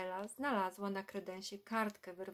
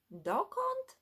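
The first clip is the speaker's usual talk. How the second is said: sharp high astonished "Dokąd?"; the clerk can't believe her ears; dumbfounded; 12 semitones higher, 4 dB louder than usual. Acted. Ticket clerk gapes at a boy wanting America, stunned. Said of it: "oniemiała pani w kasie".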